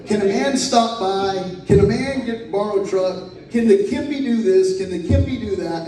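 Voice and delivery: lightly voiced wheedling friend, playful; sing-song imitation. Imitating John's third-person requests.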